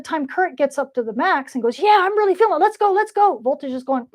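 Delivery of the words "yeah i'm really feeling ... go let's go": higher, eager shout of let's go; playful excited cheer, high and loud; pumped up. Acted. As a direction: hype yourself up like a cheerleader. Current personified at max.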